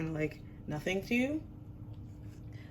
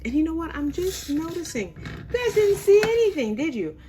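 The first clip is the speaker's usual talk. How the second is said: embarrassed surprise; 10 semitones higher, 8 dB louder than usual. Real, not acted. Realizes camera missed the action.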